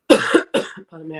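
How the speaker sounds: rough, coughing voice; croaky after a coughing fit; hoarse from a cough. Real, not acted. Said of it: "I've got a really bad cough today".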